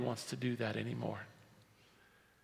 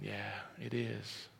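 slow, low, soft confirmation; quiet insistence; 6 semitones lower, 12 dB quieter, slower than usual. Acted. Jesus answering a doubter, quietly certain. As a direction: answer gently under the objection. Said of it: "And Jesus is going".

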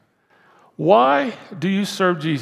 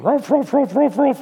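barked ruffs, a bit higher; mock dog barking; 8 semitones higher than usual. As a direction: yap like a junkyard dog. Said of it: "like a junkyard dog".

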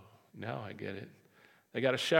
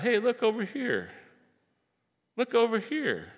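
shepherd calling; 8 semitones higher, 4 dB louder than usual. Acted. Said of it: "The shepherd kinda points out".

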